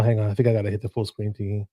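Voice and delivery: usual speaking voice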